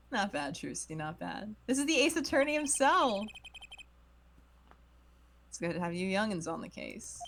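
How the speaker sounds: put-on old man voice. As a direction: play him like a tired old man. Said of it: "He's acting like he's, like, fifty years old".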